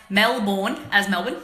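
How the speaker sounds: Melbourne said as MEL-bn, the ending swallowed; Melbourne squashed to two quick syllables; Aussie Melbourne. Shown as a demonstration. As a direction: clip Melbourne short to MEL-bn, Aussie style. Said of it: "You pronounce Melbourne".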